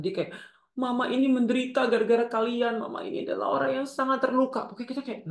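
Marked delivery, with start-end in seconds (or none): 0.7-4.7 high-pitched, put-on martyred mother; playing the victim. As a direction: act out a mother laying on guilt. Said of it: "sering merasa sebagai korban". (ibu sok jadi korban)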